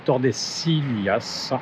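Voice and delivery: "Tordesillas" said slowly with a Spanish accent; a French speaker trying a Spanish "Tordesillas". Real, not acted. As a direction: say "Tordesillas" the Spanish way, taking your time. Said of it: "Excusez mon accent espagnol".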